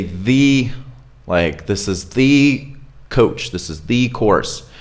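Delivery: "the" stressed and said slowly; emphasized the. Shown as a demonstration. Teacher showing stressed article, "the" stressed. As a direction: lean on "the" as the only one. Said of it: "emphasize this article".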